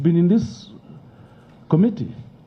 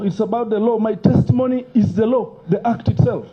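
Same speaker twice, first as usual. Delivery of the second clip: emotional outburst; 5 semitones higher than usual. Real, not acted. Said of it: "and don't be emotional".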